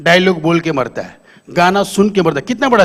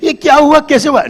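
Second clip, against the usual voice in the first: worried wife; 6 semitones higher than usual. Retold or imitated. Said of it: "बीवी देखे tension में".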